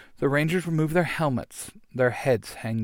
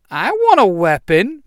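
whiny; 7 semitones higher, 8 dB louder than usual. Acted. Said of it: "Pink Ranger says".

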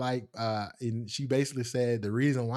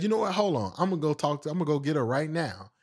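higher-pitched, sudden resolve easing down; impulsive eager cousin; 4 semitones higher, faster than usual. Retold or imitated. Cousin off to fetch the girl, eager. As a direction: jump up to go fetch someone.

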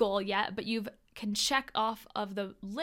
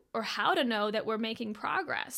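usual speaking voice

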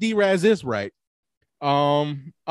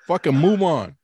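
exasperated; 2 semitones higher, 6 dB louder, slower than usual. Real, not acted. Exasperated friend pushing for the answer.

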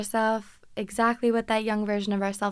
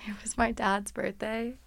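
whispered, drained by the hangover; soft worn-out whisper; hushed hangover whisper; 6 dB quieter than usual. Real, not acted. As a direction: breathe it out, spent. Hungover, low energy.

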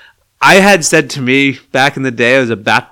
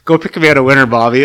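quoting Roy; 5 dB louder than usual. Retold or imitated. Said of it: "I had to get a bat boy".

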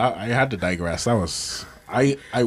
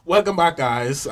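hype intro; 6 semitones higher than usual. Acted. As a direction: open the podcast with a big hype greeting. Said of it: "this is how we're supposed to start the podcast".

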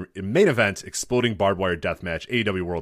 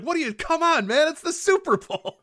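imitating the announcer; 5 dB louder than usual. Friend imitating the radio guy's Super Bowl outrage. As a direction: shriek it in disbelief. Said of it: "It's like".

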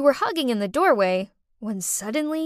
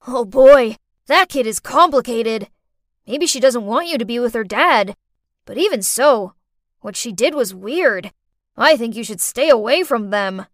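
louder, concerned friend; friend on phone; 7 dB louder than usual. Acted. Mike to Cindy, a louder concerned friend. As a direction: advise her firmly.

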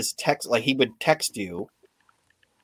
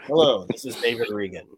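matter-of-fact, bland delivery; level, deadpan self-introduction; David Regan. Retold or imitated. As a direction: imitate a humorless coworker's dry text. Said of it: "it was just so matter of fact".

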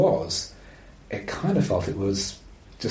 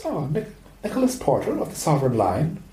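put-on Irish accent; 3 semitones higher than usual. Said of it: "I've been practicing the accent".

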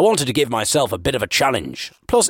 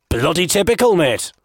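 higher, more insistent football banter; repeating himself; 6 semitones higher than usual. Acted. Blagger repeats his comment to the man, insistent. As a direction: say it up for someone who missed it. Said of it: "and so I repeated".

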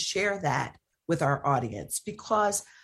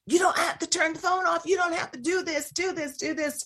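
much higher, mocking a white mom; 11 semitones higher than usual. Host mocks a white mom's confident reply to police. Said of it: "even you as a white mom saying".

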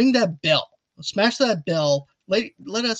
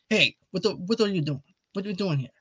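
light Italian-American impression, pitched up a little; Robert De Niro; 3 semitones higher than usual. Podcast host showing his co-host how to do an Italian impression, Robert De Niro style. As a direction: imitate the actor's Italian-American delivery. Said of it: "to be like Robert De Niro".

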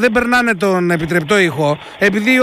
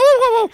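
higher-pitched imitated woofs; contrasting dog bark; 13 semitones higher than usual. Shown as a demonstration. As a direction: bark high like a yappy dog. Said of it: "Καταλάβατε, έχει διαφορά". (ψιλό γάβγισμα, μίμηση σκύλου)

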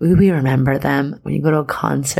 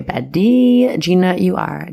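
hyped up; 4 semitones higher, slower than usual. Real, not acted. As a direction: cheer her on like a best friend. Hyping listener's cosmic baddie line.

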